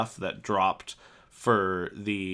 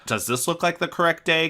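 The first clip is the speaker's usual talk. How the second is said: loud, raised-pitch indignant challenge; mad confrontation; 8 semitones higher, 5 dB louder than usual. Retold or imitated. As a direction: throw it in his face, retelling the anger. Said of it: "I was so mad".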